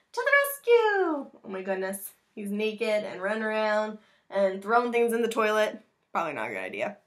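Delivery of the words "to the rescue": high, slow superhero call; slow and much higher, a bold hero's battle cry; heroic rescue cry. Acted. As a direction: call it out like a caped hero. Superhero play cry in story.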